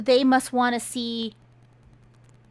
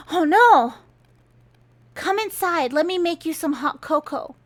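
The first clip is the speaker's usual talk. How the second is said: higher-pitched imitation of sympathy; mock fussing concern; 4 semitones higher than usual. Son to girl who just shot a man, mock concern. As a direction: fuss over someone with exaggerated concern.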